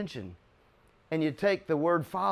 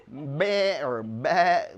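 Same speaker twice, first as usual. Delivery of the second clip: slow, laughing mock bleat; laughing through drawn-out farm-animal sounds; animal noises; 4 dB louder, much slower than usual. Shown as a demonstration. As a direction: drag out a silly bleat while laughing. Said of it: "What do they do?".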